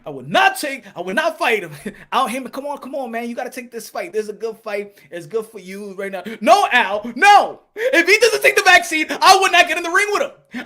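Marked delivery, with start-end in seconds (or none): 0.0-1.7 mock fighter refusal. Mocking the fighter again. 6.4-10.6 much higher and louder, yelling no; mock shouted refusal. Fighter yelling to his promoter, hammed-up loud refusal.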